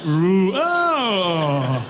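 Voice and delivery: giddy laughing ooh; breathless laugh through the words; laughing disbelief. Retold or imitated. Team reacting to the big grant, laughing in disbelief.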